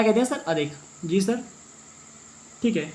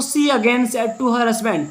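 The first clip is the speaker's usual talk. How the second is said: reads each word slowly, spaced out; slow reading aloud; much slower than usual. Shown as a demonstration. Teacher dictating the English line slowly for students. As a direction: spell the sentence out slowly for the class.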